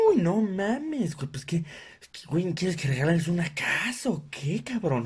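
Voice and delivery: slow whining uy; mock whiny complaint. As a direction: whine like a stingy coworker. Coworker whining about gift price. (queja lloriqueada del compañero codo)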